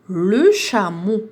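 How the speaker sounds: "Le chameau" stretched out very slowly; slow syllable blending. Shown as a demonstration. Teacher modelling the blended word for pupils, very slow. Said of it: "ربطت بيناتهم".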